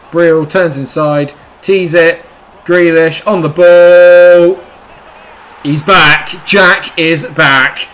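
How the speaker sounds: loud, slow commentator build; excited goal call. Real, not acted. Gamer commentating his winner, loud and slow.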